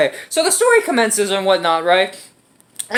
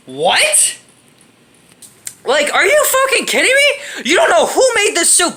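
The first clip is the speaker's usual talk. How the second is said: much higher, laughing incredulous outburst; laughing disbelief; 7 semitones higher than usual. Real, not acted. Laughing at the character's stupidity.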